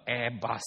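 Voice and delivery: "Airbus" with the weight on "bus"; stress on BUS. Shown as a demonstration. Preacher joking about the airline's name, stress on BUS. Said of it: "Emphasize on the word bus".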